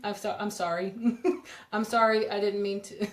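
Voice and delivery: sorry but can't stop laughing; laughing apology. Real, not acted. Host apologizing to a viewer about the cold, laughing. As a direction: apologize through real giggles. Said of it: "I'm laughing because I'm sorry".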